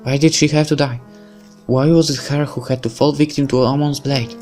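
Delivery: put-on a girl blaming herself for her mentor's death, half-crying; mild weeping girl. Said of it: "is starting to weep uncontrollably".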